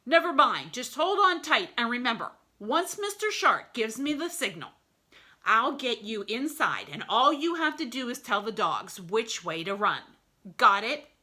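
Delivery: sure-of-himself plan maker; a hint of a sly wolf boss; confident wolf. Mister Wolf voiced in story.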